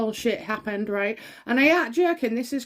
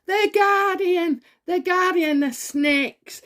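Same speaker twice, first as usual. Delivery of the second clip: drawn-out, higher contemptuous sneer at the name; scornful sneer; 8 semitones higher, 4 dB louder, slower than usual. Real, not acted. Psychic mocking the Guardian to viewers, scornful.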